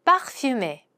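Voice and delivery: parfumé said slowly with a French uvular r; parfumé spoken clearly for learners; careful French word. Shown as a demonstration. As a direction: model parfumé syllable by syllable. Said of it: "라는 표현을 사용해 보도록 하죠".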